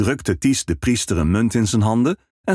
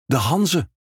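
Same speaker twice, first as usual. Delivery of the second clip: dawning realization; 8 semitones higher than usual. Acted. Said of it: "begreep Ties".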